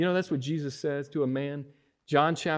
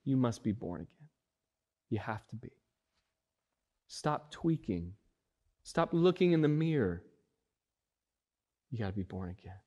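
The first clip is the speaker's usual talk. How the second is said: "you must be born again" said quiet and hushed; tender, softer version of the command; soft intimate quote; 2 semitones lower, 5 dB quieter than usual. Acted. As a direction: drop to a gentle, near-hushed plea. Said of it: "He said".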